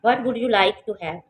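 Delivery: slow textbook dialogue reading; slow careful reading. Shown as a demonstration. Reads ladybird's line.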